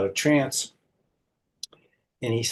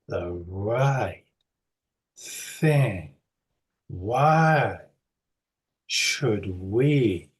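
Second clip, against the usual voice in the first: each word set apart by long pauses; slow hypnotic repetition; much slower than usual. Retold or imitated. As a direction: hammer the phrase home word by word. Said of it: "he kept saying".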